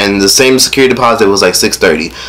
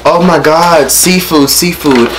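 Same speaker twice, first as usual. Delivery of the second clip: higher-pitched mock follower clamour; imitated excited fans; 6 semitones higher, slower than usual. Instagram followers asking for seafood, imitated excited fans. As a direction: imitate fans begging for a dish.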